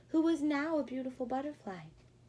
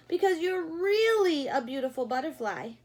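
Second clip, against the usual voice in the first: 1 admiring mice; 5 semitones higher, 6 dB louder than usual. Acted. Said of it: "they answered".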